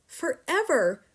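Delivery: slow, loud despairing cry; cried out. A narrator's reading. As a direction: stretch the word in despair. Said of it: "Matilda cried".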